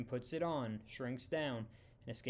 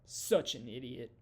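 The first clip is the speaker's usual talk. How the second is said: louder, anguished cry of Such an idiot; sobbing self-reproach; 6 dB louder than usual. A narrator's reading. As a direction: burst out with it, nearly sobbing. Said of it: "Janet begins sobbing".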